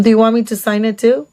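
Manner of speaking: quick, understated sarcasm; a dry offer you don't mean; sarcastic. Retold or imitated. Woman offering to sign her date's receipt, sarcastic. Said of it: "I'm being sarcastic".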